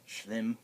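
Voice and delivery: schlimm with a held, lengthened mm; long mm in schlimm. Shown as a demonstration. Teacher demonstrating a long mm in schlimm. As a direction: stretch the mm of schlimm. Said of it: "Double M just makes a longer mm".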